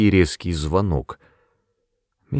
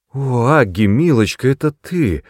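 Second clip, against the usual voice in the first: high, louder cry of relief; relieved exclamation; 6 semitones higher, 5 dB louder than usual. A narrator's reading. Mother greets her visitor with a relieved, higher, louder cry. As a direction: exclaim with sudden relief after a fright. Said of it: "воскликнула миссис Броуди с некоторым облегчением".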